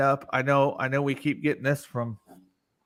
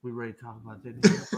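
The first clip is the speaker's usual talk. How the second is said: fast, lower friend imitation; imitating Bull; 4 semitones lower, 4 dB quieter, much faster than usual. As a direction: rattle it off like an eager friend. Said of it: "This is my Bull eighty impression".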